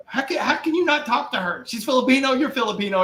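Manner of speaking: incredulous, laughing high quote; mock disbelief, voice pushed up; laughing mock disbelief at his wife; quoted self. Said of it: "And I'm like".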